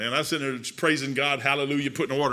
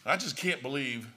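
much softer, lower troubled prayer; Joseph praying quietly; 4 semitones lower, 9 dB quieter than usual. Retold or imitated. Joseph quietly praying about Mary, lower and much softer. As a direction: murmur it low to God. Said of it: "I can just hear him saying it in his head".

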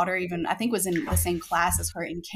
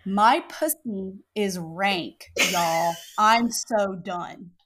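slow read-out; much slower than usual. Retold or imitated. Reads out husband's embarrassing text.

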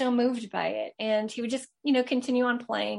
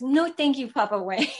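put-on higher, louder 'No, thank you, Papa Wayne' in a little-kid voice; toddler repeating; 5 semitones higher, 4 dB louder than usual. Son parrots his mother's words to the spirit, high kid voice. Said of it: "He goes".

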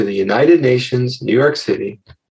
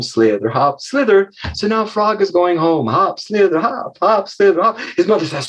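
lively narration, pitched up; storytelling; 4 semitones higher than usual. Acted. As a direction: roll the tale along playfully.

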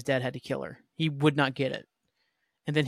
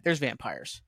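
quieter, flat repeat of the same line; deadpan aside; 4 semitones lower, 4 dB quieter, slower than usual. Shown as a demonstration. Reviewer mocking the show's premise, deadpan aside. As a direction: throw it away dryly, as a mock-bored shrug. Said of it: "How about that?".

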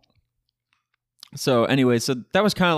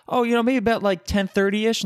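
put-on vague kid answer; 9 semitones higher than usual. Kid answering strict parents, high and evasive. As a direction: dodge the question with a lazy shrug.

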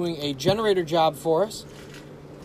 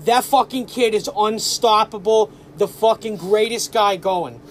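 put-on South Boston accent; 3 semitones higher, slower than usual. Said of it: "South Boston accent".

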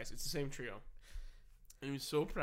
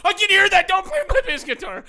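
very loud, higher yell; yelling from another room; 13 semitones higher, 17 dB louder than usual. Retold or imitated. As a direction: call out angrily from behind a door. Yelling from the bathroom.

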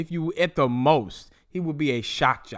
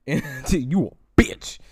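very slow, laughing insult; laughing drawl; much slower than usual. Real, not acted. Taunting Tory a second time, slow and laughing. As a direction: stretch it out through a laugh.

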